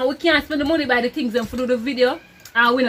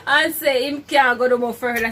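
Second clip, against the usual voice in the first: laugh-crying; 3 semitones higher, 5 dB louder than usual. Real, not acted. Laughing crying from spicy food.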